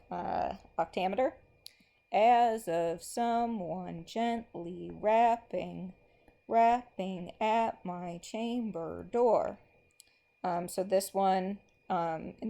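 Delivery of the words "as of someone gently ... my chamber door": slow, rhythmic recitation marking every beat; slow poem reading. Acted. Teacher reads a poem line to the class, slow and rhythmic. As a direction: read it out as if tapping the meter.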